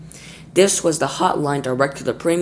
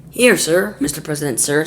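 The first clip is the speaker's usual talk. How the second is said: falsetto spy voice; 3 semitones higher, 5 dB louder than usual. Acted. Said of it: "a falsetto voice".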